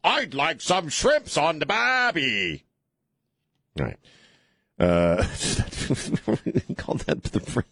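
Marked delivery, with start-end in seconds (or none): 0.0-2.6 high, slow, hammed-up Aussie accent; mock Australian accent. Shown as a demonstration. Host shows how people attempt Australian, in a hammy accent. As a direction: stretch it out like a cartoon Australian. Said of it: "try to do an Australian accent".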